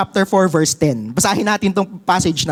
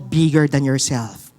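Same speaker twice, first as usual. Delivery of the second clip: low and slow, leading the congregation; slow emphatic model line; 8 semitones lower than usual. Shown as a demonstration. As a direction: say it for them to repeat, slowly. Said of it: "sabi mo sa katabi mo".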